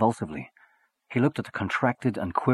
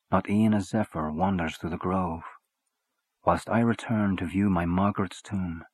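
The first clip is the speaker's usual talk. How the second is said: poem recital. Acted. Reads Byron poem aloud.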